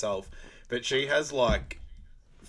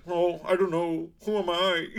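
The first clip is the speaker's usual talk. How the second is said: mock confusion; 7 semitones higher, 5 dB louder than usual.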